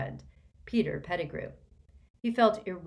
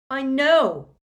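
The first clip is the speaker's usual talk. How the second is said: much higher, much louder bellow of "I know"; 8 semitones higher, 13 dB louder than usual. A narrator's reading. Harry, fed up, cutting everyone off: bellowed "I know". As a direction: shout "I know" to cut them off. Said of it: "Harry bellowed".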